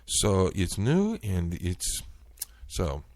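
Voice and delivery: high, faltering mock agent voice; lightly imitated stammering agent; agent's reply. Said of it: "And her response was".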